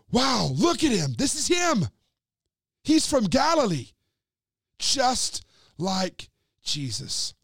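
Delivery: high, thrilled accusing voice; excited accusation. Acted. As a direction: sure you've caught him, point and tell everyone. Bystander insists Peter's a disciple.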